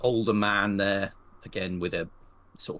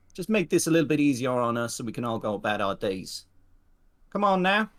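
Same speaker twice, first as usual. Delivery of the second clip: put-on higher-pitched older outlaw voice; gruffly courteous hold-up speech; older man; 4 semitones higher, 3 dB louder than usual. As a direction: voice an older train robber addressing the whole carriage. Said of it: "the older man goes".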